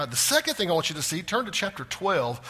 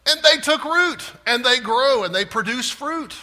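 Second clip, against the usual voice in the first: Jeremiah accusing God; 7 semitones higher, 7 dB louder than usual. Retold or imitated. Jeremiah accusing God of planting the wicked, louder and higher. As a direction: fling the accusation upward. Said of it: "and he says".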